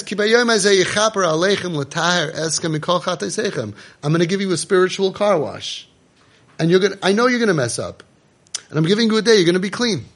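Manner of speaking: voice of God. Acted. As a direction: proclaim it like a generous king. Voicing Hashem, raised pitch.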